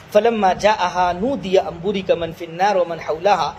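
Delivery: slow, measured tajweed chant; drawn-out Quranic recitation. Acted. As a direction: recite the verse slowly and melodically. Quran verse recited in lesson.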